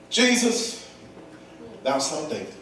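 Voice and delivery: quiet, understated appeal, falling away low; soft, matter-of-fact calling; sensible, restrained cry. Shown as a demonstration. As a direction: say it like you had sense. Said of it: "he didn't do it like that".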